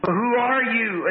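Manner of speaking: a prince questioning strangers, lightly acted; lightly voiced prince.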